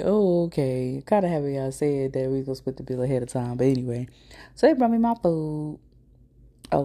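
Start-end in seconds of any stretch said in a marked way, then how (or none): 0.0-1.0 "Oh" stretched long in an odd put-on voice, "okay" let fall; a dry, sceptical "oh... okay"; drawn-out unimpressed oh okay. Retelling her reaction again.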